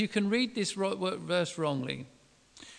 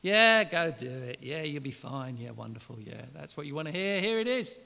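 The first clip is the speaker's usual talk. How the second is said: mocking; 4 semitones lower than usual. Shown as a demonstration. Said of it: "he was mocking them".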